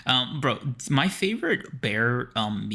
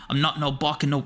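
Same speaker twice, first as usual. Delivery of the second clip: hammed-up British accent; 3 semitones higher than usual. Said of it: "are you Butcher or our friend?".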